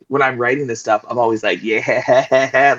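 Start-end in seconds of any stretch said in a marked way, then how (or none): 1.6-2.8 giggly, chuckled-out yeah; gleeful writer cackling over the page; excited. Retold or imitated. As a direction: let the word bubble into laughter. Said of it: "I'm all excited".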